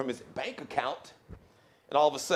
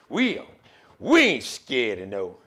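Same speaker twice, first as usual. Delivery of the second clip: country voice; 5 dB louder than usual. Retold or imitated. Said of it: "Bernie Mac impression".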